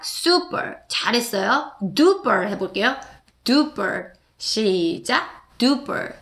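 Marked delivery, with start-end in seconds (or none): 0.0-0.8 super whispered softly, English vowels. Shown as a demonstration. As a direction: breathe out super gently.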